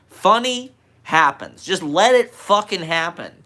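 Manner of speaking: high, loud, slow laughing sage; guru voice. Pretend. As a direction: preach it like a grinning guru. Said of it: "As a guru".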